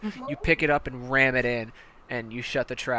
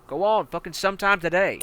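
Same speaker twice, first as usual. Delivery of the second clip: loud, higher impatient bark; impatient shout; 6 semitones higher, 7 dB louder than usual. Acted. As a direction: hurry him up with a yell. Commander hurries recruit.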